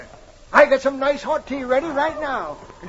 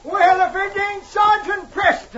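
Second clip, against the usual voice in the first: high delighted shout of welcome; excited greeting; 9 semitones higher, 3 dB louder than usual. Acted. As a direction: call out in happy surprise. Old prospector greets Mountie.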